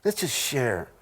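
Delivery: a hint of a touchy-feely guy; mock sensitive guy. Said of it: "two guys look at each other and go".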